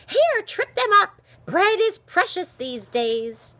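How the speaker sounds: high, loud, sharp command; feisty old woman's shout; urgent urging. A narrator's reading. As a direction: egg someone on loudly, easing slightly at the end. Old woman urging Ellen to fight.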